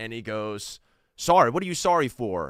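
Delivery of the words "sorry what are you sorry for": mock sudden irritated snap, loud and high. Retelling how a man on the street suddenly turned on them: imitating someone snapping angrily. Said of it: "he just snapped".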